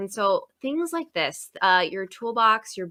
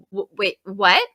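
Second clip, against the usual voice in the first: stammered, louder double-take; retold shock; 6 dB louder than usual. Teacher learning she said the name wrong, stammering in shock. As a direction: act out being caught off guard. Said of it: "I was so shocked".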